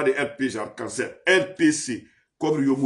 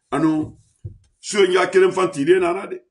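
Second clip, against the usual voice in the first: ordinary talk, nothing marked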